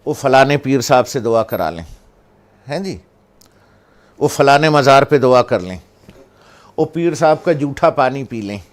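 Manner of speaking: loud, mock-eager crowd voices; hammed-up pleading of shrine-goers; mocking eager people. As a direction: lampoon the shrine chasers. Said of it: "لوگ بھاگتے ہیں".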